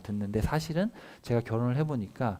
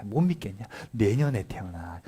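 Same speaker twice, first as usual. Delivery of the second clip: whispered promise; 3 semitones lower than usual. Acted. God promising a son, whispered.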